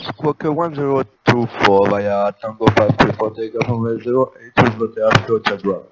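loud crackly radio transmission; over the radio. Real, not acted. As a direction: talk like a pilot over the radio. Pilot reads back clearance over radio.

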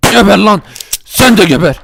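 loud fighting yell; shouted kill cry; battle shout. Acted. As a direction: shout as you fire. Shooting the ninjas.

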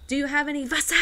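Wasser said with a V, bad German accent; mock German accent. English vlogger asking German staff for water, mock accent. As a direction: ask for Wasser like a learner in a German shop. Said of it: "But he was like".

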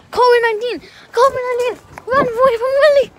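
high, loud joking yell; mock panic; playful shout. Real, not acted. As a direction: shout it like fleeing a plague in jest. Jokingly fleeing the dog.

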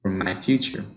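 to prepare for my future, said slowly; slow demo. Shown as a demonstration. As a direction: model it deliberately. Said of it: "a for after prepare".

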